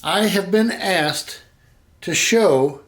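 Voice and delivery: stiff, nervous robot voice. Real, not acted. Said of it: "why do I sound like a robot?".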